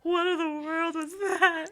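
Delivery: put-on high, loud bewildered baby voice; lightly voiced toddler. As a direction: play a baffled toddler. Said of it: "little two-year-old me was like".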